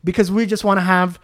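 mildly heated, emphatic protest. Retold or imitated. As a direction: argue the point with rising indignation. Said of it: "now I started to raise my voice".

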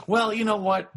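high, laughing through the words. Real, not acted. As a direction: still laughing as you speak. Laughs after quiz answer.

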